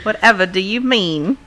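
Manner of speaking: lightly voiced Southern belle. Co-host feigning innocence, playful Southern belle. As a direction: play the innocent Southern lady, mildly hammed-up. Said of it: "everybody knows the Southern Belle".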